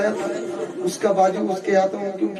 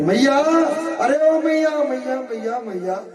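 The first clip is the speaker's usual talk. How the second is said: calling out; 5 semitones higher than usual. Acted. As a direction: call Maiya, then let it die down. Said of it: "मैया को आवाजें लगा रही".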